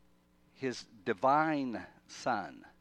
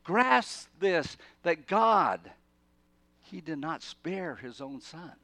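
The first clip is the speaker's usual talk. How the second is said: higher, louder, slow insistent urging; impassioned plea; 5 semitones higher, 5 dB louder, slower than usual. Retold or imitated. Paul pleading with readers, urgent and slow. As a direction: grab them by the lapels and plead. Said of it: "Or, or something like this".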